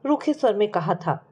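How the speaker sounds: measured, dramatic storytelling with falling phrase ends; story narration. A narrator's reading. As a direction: narrate a tragic family tale. Narrates a sad family story.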